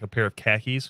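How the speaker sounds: Boston accent on "khakis", car keys run together into "khakis". Shown as a demonstration. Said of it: "the way to say it in Boston is say".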